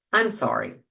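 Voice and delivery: a low, flat "I'm sorry"; a bare, low "I'm sorry"; plain regret. Shown as a demonstration. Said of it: "expressing regret is just saying".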